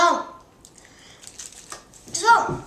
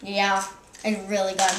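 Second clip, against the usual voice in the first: talking with mouth full; 5 semitones lower than usual. Real, not acted. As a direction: say it through a mouthful of food. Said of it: "don't talk with your mouth full".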